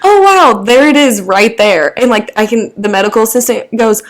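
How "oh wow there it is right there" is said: mock the doctor's sudden delight; excited discovery. Imitating the doctor who finally finds it in her arm, excited.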